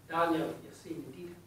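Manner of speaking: slow, lightly voiced Scottish brogue; a hint of a Scottish aunt's brogue, slow; lovely Scottish brogue. Great aunt greeting Daniel, slow light Scottish brogue. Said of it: "in a lovely Scottish brogue".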